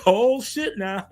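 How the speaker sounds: slow, laughing oh shit now; amused disbelief, laughing. Real, not acted. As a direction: say it through laughter. Laughing at burn.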